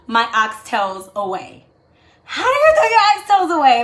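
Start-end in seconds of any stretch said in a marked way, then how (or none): 2.2-3.8 high, loud, hammed-up whine of self-pity; mock wail. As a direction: cry out in joking despair over lost oxtails. Wailing over thrown-out oxtails.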